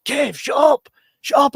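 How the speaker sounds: high-pitched mock telling-off; imitated scolding wife. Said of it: "my wife in the cinema and she's like".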